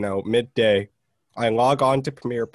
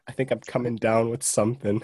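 stuffy, congested voice; nasal voice. Real, not acted. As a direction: speak through a blocked nose. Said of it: "you sound kinda nasally".

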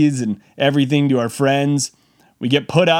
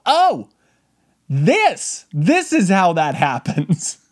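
dawning realization; 2 semitones higher, slower than usual. Retold or imitated. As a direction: realize the horror, laughing. Realizing danger, laughing.

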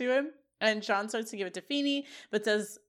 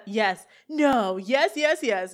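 louder, rapid eager yeses; excited yeses; 7 dB louder, much slower than usual. Retold or imitated. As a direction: blurt them out, barely containing joy. Eric excitedly interrupting.

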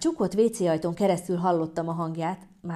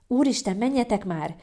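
higher, louder urging; nervous shout; 4 semitones higher, 3 dB louder than usual. Acted. Nervous mother urging couple to leave, shouting. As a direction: shout them out of the door. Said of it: "kiabálta anyu".

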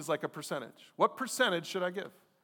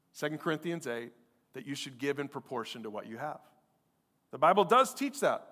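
ordinary talk

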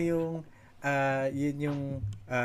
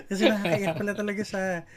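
laughing; 7 semitones higher, 7 dB louder than usual. Real, not acted. Laughing while recalling crying.

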